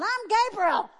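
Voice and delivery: high, loud indignant declaration; indignant angel. Retold or imitated. Angel insisting on who he is, loud and indignant. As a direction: proclaim your name, offended. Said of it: "this angel's probably going".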